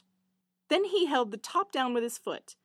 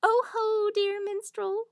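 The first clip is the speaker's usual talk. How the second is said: eager little hare; 9 semitones higher, 3 dB louder, slower than usual. Acted. Hare voiced in fairy tale.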